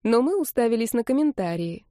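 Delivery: ordinary delivery, nothing marked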